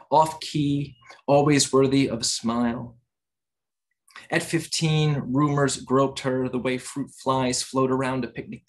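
measured poem recital with pauses between phrases; poetry reading. Acted. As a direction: read the poem in deliberate, separated phrases. Reads own poem aloud.

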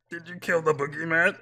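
high, loud mock line dissolving into laughter. Gamer mocking the game's line to viewers, laughing. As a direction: tease it, then break up laughing. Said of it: "I'm crying".

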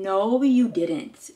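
slow, drawn-out disbelief. Real, not acted. Vlogger to generous friend, drawn-out disbelief. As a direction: stretch each word, astonished at the gift.

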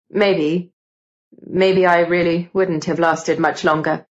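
lightly voiced young man admitting it; conceding Gideon. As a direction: concede it with pauses, slightly low.

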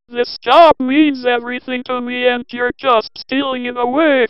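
desperate pleading. Acted. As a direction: plead for your job in panic. Paul begs not to be fired.

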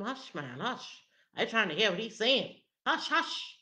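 impatient shushing from the crowd; crowd hushing him. Acted. Crowd telling the blind man to hush, impatient shushing. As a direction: hush someone who is in your way. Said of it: "the crowd is telling him".

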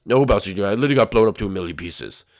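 low-pitched dad voice; ghostly father. Acted. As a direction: ghost dad setting his son straight.

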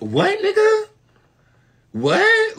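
high, incredulous what; stunned outrage. Acted. Reacting to the man's cruel remark, with stunned high disbelief. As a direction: shriek it in disbelief.

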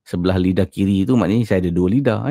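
slightly slurred, lisping from an ulcer; lisp from mouth ulcer. Real, not acted. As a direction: talk around a sore tongue ulcer. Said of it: "saya berbual ni agak pelat sedikit".

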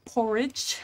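slow Australian accent landing nearer British; British-sounding stab at an Australian accent; attempted Australian accent. Shown as a demonstration. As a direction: try Australian and slip into British. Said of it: "Australian accent porridge. Oh, that was more British".

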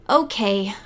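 a touch of resigned sigh. Acted. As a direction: give in, mildly deflated. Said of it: "with a resigned sigh".

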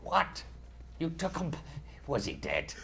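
a hint of a salty pirate. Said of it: "So I'm talking like a pirate now".

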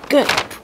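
swallowing gulp; gulp sound. Shown as a demonstration. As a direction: act out a gulp. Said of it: "like this".

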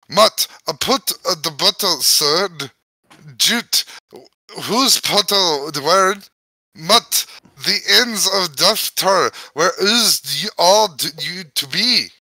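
halting read in a light Irish lilt; Irish accent. Pretend. The book forcing the reader into an Irish accent, halting. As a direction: stumble through it in a mild Irish accent. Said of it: "I hate that it's making me talk like this".

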